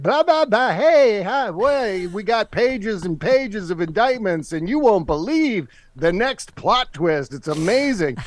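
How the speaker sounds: high, slow gushing influencer; mock TikToker voice. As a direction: gush like a TikToker teasing a twist. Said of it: "just being like".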